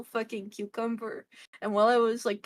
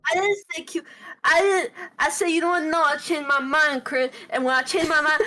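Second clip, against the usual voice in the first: put-on a light, higher New York accent; 5 semitones higher, 5 dB louder than usual. Retelling her vegetable order in a New York accent. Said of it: "I don't know why I'm doing this accent".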